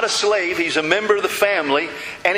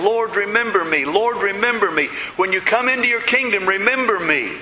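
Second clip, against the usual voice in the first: higher, insistent pleading; urgent repeated plea; 5 semitones higher than usual. Retold or imitated. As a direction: beg again and again without letting up. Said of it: "but over and over again, he kept saying".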